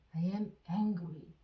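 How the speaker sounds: very slow, each word spaced out for repeating; dictation-slow teacher read; slow model sentence. Shown as a demonstration. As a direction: say it slowly so learners can follow. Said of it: "듣고 따라해 보세요".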